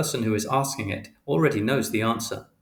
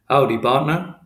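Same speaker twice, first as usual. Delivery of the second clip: jokey cowboy greeting; 3 semitones higher, 7 dB louder than usual. Retold or imitated. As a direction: greet him like a joking cowboy. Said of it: "which is a joke he does".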